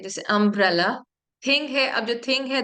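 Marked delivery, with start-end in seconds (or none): 0.2-1.0 अम्ब्रेला said in two parts, "अम्ब... रेला"; split into syllables. Shown as a demonstration. Teacher joining two sounds into one word, अम्ब्रेला split in two. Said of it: "एक word बनाना है".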